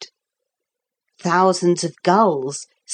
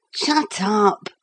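mildly fierce, a little higher; 4 semitones higher than usual. A narrator's reading. Philip answering Lucy's endearment, fiercely. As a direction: snap it with a touch of fierceness. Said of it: "said Philip fiercely".

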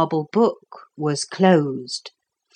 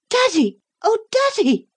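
high, rising shout of Daddy; a child crying out in joyful shock; cracked joyful calling out; loud cracked cry. A narrator's reading. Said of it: "cried out in a loud, cracked-sounding voice".

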